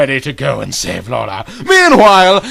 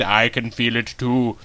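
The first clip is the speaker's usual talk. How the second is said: hushed Lorna; 6 semitones lower, 8 dB quieter than usual. Acted. Lorna answers softly in story.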